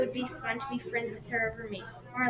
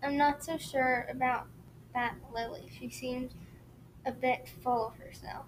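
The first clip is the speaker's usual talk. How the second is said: hushed, higher voice, much softer; whispered; 4 semitones higher, 13 dB quieter than usual. A narrator's reading. Best friend confides doubts about the new girl, whispering. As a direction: confide it under your voice, hesitantly. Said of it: "She whispered to me".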